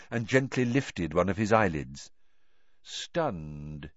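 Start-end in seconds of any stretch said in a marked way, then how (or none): 2.8-3.9 low, hushed single word; said softly. A narrator's reading. Dumbledore bending over unconscious Krum, said softly. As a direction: say it softly, pitched well down. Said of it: "he said softly".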